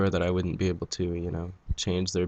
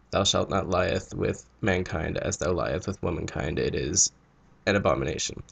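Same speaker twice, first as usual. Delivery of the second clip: a hint of solemn preacher; mock-solemn scripture. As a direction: recite it like scripture, sinking in pitch. Quotes Bible verse in mock solemnity.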